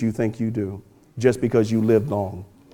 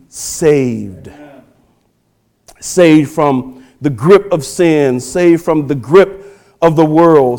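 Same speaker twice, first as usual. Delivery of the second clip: forceful preaching; 5 semitones higher, 6 dB louder than usual. Acted. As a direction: preach with building force, stretching key words.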